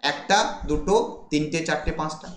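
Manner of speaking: একটা, দুটো with rising tune, then তিনটে, চারটে, পাঁচটা falling and fading; counting the feet. Shown as a demonstration. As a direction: count the beats one by one. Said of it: "কতগুলো foot রয়েছে?".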